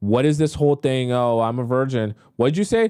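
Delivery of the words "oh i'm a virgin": mocking, nervous, weak, timid voice. Mocking someone who confessed nervously instead of saying it with chest: mocking imitation, nervous and weak. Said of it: "this just makes you look so weak".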